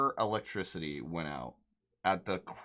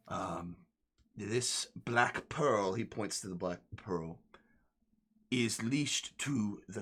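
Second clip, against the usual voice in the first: a hint of a gruff captain, confiding; pirate captain explaining.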